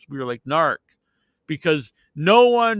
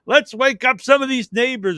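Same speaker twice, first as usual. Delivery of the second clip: put-on mischievous old man; 8 semitones higher, 4 dB louder than usual. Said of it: "he's like".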